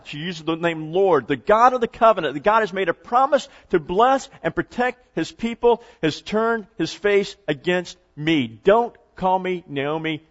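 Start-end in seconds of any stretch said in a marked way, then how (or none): 1.3-10.2 bitter and angry. Acted. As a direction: press each phrase with wounded anger. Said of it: "She's angry".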